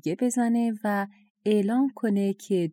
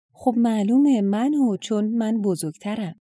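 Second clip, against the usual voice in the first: eager, hurried claim, a bit louder; با عجله; 3 semitones higher, 3 dB louder than usual. Acted. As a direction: rush to claim it first. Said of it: "با عجله گفت". (با عجله و مشتاق)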